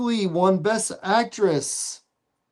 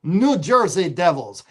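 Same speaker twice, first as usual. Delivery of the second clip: put-on French Canadian accent; 2 semitones lower than usual. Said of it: "I'm saying it with a little bit of a French Canadian accent".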